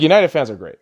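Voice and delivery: dry sarcastic praise; mock praise for rival fans. Real, not acted. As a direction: say it as a jab, not a compliment. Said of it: "I say that kind of sarcastically".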